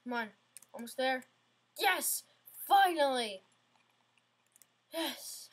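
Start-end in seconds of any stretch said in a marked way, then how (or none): 1.8-5.5 excited cheer. Real, not acted. Finally clearing a hard jump.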